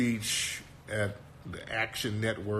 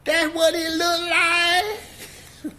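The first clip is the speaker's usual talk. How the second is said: very high, loud mock Black accent; AOC's put-on Black accent; 5 dB louder than usual. Host mocks the speech clip, exaggerated Black accent. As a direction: parrot her in a hammed-up, high Black accent. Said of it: "Where the fuck did you get that accent from?".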